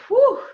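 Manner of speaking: high, loud breath of relief; relieved whew. Real, not acted. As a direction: let out a sharp relieved whew. Host exhales after guest's praise.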